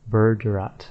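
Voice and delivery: "Berderat" with no G; correct way. Shown as a demonstration. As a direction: say "Berderat" as BER-de-rat. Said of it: "actually pronounced Berderat".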